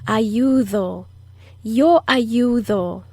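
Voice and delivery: airy soft D in ayudo. Shown as a demonstration. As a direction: let air flow through the D of ayudo. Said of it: "It's the soft D that blows air out".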